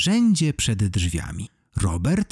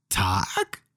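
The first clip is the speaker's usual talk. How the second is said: mildly surprised, drawn-out question; a touch of vampire astonishment; 3 semitones lower, 3 dB quieter than usual. A narrator's reading. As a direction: stretch it out in mild surprise. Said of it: "Zdziwił się pan Zbyszek".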